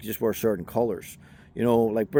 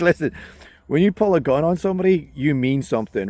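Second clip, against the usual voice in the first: emphatic; 4 semitones higher, 4 dB louder than usual. Real, not acted. Emphatic point to viewers.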